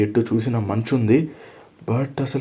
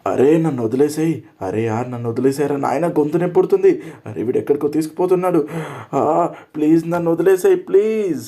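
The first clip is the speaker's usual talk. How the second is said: desperate pleading; 5 semitones higher than usual. Acted. Captive begging the guard to release him, frantic pleading. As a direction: beg to be let go as he drags you. Being dragged away, begging.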